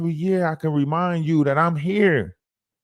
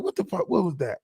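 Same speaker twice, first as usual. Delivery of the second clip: mock startled; 3 semitones higher, 6 dB quieter, faster than usual. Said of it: "I was looking like".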